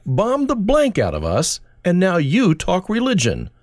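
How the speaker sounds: put-on a drunk abusing a street preacher, yelling angrily; angry drunk. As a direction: bark the insult like a furious drunk. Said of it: "a drunk from an Eastern European country".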